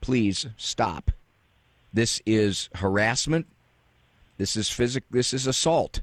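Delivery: ordinary talk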